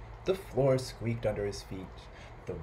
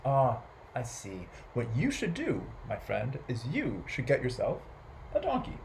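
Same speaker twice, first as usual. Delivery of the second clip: put-on wise old man; 4 dB quieter than usual. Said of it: "and the wise man said".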